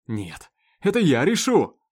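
slow, loud yell; slow furious shout. Acted. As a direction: bellow every word as you grab the gun. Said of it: "Выкрикнув это".

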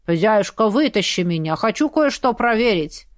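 lightly voiced grumbling talking skull; a hint of a disgruntled skull; displeased skull voice. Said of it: "недовольный голос нашей черепушки".

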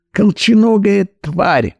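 a hammed-up furious yell. Brother hurls an insult at his sister, yelling. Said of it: "орал Кальманчик".

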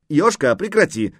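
high, loud order to stop; shouting. A narrator's reading. Wife trying to stop her husband, shouting. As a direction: cry out to stop him. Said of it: "крикнула Дана".

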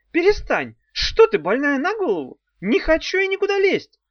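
high, loud panicked squeal; panicked squeak. A narrator's reading. Demon pleading with Daf in panic. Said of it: "В панике пискнул Хнык".

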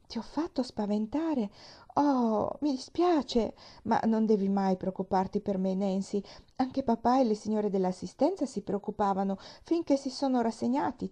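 put-on cheerful girl reassuring the maid; a hint of a carefree little girl; lightly voiced little girl. Child character voice.

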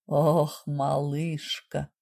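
husband gasps her pet name, soft and low; gasped out. A narrator's reading. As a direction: let it out in a shaky gasp. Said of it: "судорожно выдохнул Вит".

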